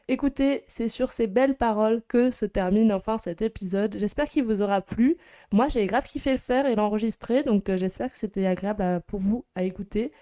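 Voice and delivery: slightly hoarse, worn-out voice. Real, not acted. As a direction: talk through a tired, hoarse voice. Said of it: "ma voix qui est un petit peu cassée".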